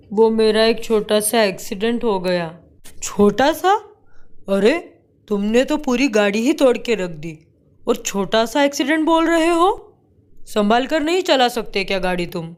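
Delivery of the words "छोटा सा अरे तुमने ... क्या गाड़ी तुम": incredulous angry scolding, rising high; mock the excuse furiously. Husband scolds over wrecked car. (गुस्से में ताना मारते हुए)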